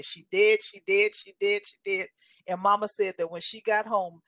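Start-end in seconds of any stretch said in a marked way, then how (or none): 0.0-2.1 a hint of a sly devil voice; lightly voiced devil taunting; devil's taunt. Devil taunting mother on the drive home, lightly voiced. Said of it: "the devil kept saying".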